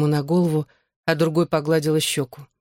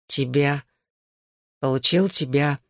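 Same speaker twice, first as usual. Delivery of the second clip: slurred; 2 semitones lower than usual. A narrator's reading. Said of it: "заплетающимся языком признался Джонни".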